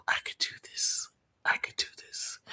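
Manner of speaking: half-whispered, barely voiced aside; hushed self-talk. Real, not acted. Streamer talking herself into staying up, hushed. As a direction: drop to a near whisper for yourself. Muttering to herself while working out sleep.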